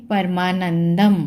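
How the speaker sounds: परमानंदम closed with a clear "m"; anusvara as m. Shown as a demonstration. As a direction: end परमानंदम on the m. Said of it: "तो म की आवाज़ आएगी". (परमानंदम के अंत में साफ़ "म")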